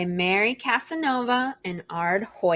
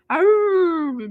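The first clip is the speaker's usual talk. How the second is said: mock dog growl, louder; 8 semitones higher, 6 dB louder than usual. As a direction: grumble like a sleepy dog. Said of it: "George said".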